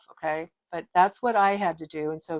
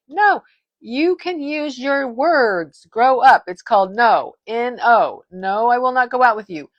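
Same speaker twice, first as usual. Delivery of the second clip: emphatic; 3 semitones higher, 6 dB louder than usual. Real, not acted. Vlogger lecturing her viewers on saying no, emphatic. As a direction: spell out the word no firmly. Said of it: "I know I'm being really emphatic".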